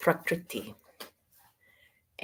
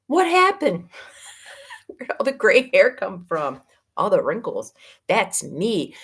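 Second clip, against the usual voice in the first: surprised at the mirror; 3 semitones higher than usual. Retold or imitated. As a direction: gasp at your own reflection. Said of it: "looks in the mirror and goes".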